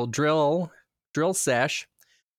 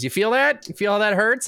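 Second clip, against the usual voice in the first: higher-pitched probing questions; raised, insistent mock-dentist questions; imitating insistent dentist; 6 semitones higher, 4 dB louder than usual. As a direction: play a dentist eagerly checking for pain. Retold dentist prodding a sore tooth.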